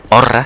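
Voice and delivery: "Horra" with a long rolled Russian r; mock Russian roll on "Horra"; joking Russian "Horra". Shown as a demonstration. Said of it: "como soy ruso".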